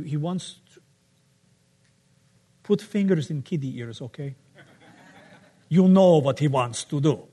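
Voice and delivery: a hint of a Russian accent, playful; mock Russian accent. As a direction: tell it in broken Russian English. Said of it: "in the Russian style of plot".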